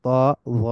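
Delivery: ত and জ with rounded, full vowels; heavy ত and জ. Shown as a demonstration. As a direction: say ত, জ as Arabic tafkhim. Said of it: "এই দুইটাও হেভি".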